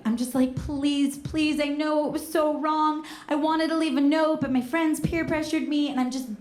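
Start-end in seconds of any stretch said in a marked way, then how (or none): 0.6-5.9 higher-pitched mock pleading; retold begging with a raised pitch; begging for mercy. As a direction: plead your case, lightly hammed up. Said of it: "I just start begging them for mercy".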